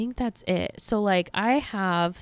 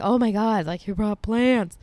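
excited dad; 3 semitones higher, 4 dB louder than usual. Retold or imitated. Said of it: "all excited".

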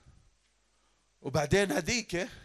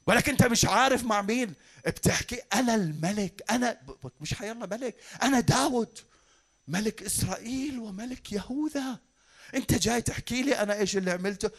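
indignant king; 4 semitones higher than usual. Acted. Preacher voices affronted King David.

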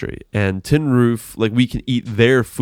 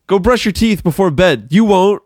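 taunting friend; 8 semitones higher, 5 dB louder than usual. Retold or imitated. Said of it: "she'll be like".

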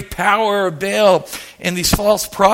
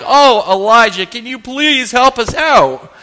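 pleading kings; 4 semitones higher, 4 dB louder than usual. Retold or imitated. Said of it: "back to the kings, they're like".

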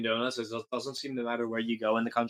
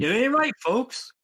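much higher, louder folksy cry; mock preacher; 14 semitones higher, 4 dB louder than usual. Host echoing partner to the audience, high mock-preacher cry. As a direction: holler it like a revival preacher.

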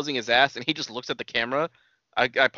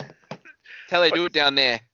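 slow, higher mock-knowing aside; teasing slow aside; 4 semitones higher, much slower than usual. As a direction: stretch it out like a sly joke. Joking drawn-out remark.

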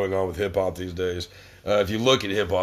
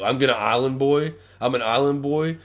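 incredulous question; 3 semitones higher than usual. Real, not acted. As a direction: repeat it back like it makes no sense. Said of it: "what do you mean you're gonna Island Boy?".

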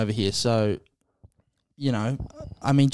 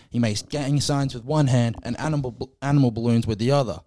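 a mocking Irish brogue, doing Conor McGregor; light Irish lilt, taking the piss; Irish accent as a roast. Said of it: "That was a good accent, by the way. Good Irish accent".

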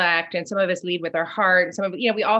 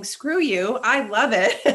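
laughing, defiant and a bit higher; defiant joy; 4 semitones higher, 4 dB louder, slower than usual. Retold or imitated. Imagining defying critics, gleeful and defiant. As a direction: toss it off with glee. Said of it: "instead of saying".

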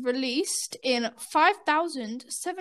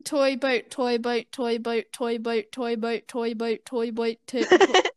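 "toy boat" chanted evenly until it falls apart; tongue twister. Shown as a demonstration. Taking a turn at the twister, steady repetition. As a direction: repeat "toy boat" steadily, then stumble on "to-". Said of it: "Then it just deteriorates".

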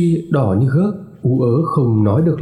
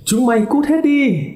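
high, panicked scream at the intruders; frightened scream; 12 semitones higher than usual. Acted. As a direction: shriek them away in terror. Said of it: "hét lên".

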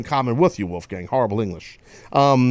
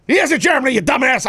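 mock exasperation; 10 semitones higher, faster than usual. Scolding co-host mockingly.

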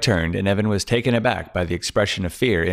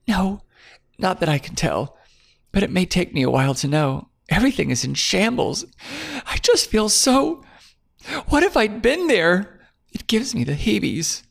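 put-on shaken young woman; 11 semitones higher than usual. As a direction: let the fear creep into her words. Claire voiced, shaken.

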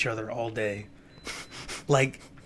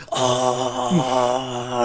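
a high, loud "Oh!" from the benches; mock crowd jeer; 7 semitones higher, 6 dB louder than usual. MPs jeering a roasted member, high loud mock "Oh!". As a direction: jeer like the whole chamber at once. The chamber jeers the insult.

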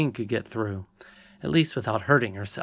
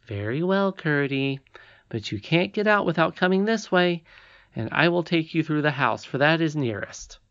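put-on decided young princess; 4 semitones higher than usual. Irene directs Curdie.

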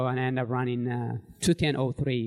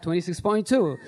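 laughing; 4 semitones higher than usual. Real, not acted. Repeated answer, laughing.

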